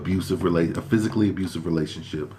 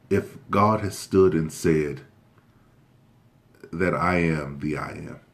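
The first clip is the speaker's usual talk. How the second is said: preacher voice. Real, not acted. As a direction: intone it like a pastor from the pulpit. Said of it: "You got your real preacher voice on".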